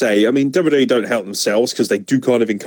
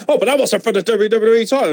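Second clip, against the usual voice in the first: higher whiny mock voice; Byron Saxton; 8 semitones higher than usual. Mocking Byron correcting Daniel Bryan, higher whiny voice. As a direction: whine it like a pedantic fanboy. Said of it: "And Byron Saxton's like".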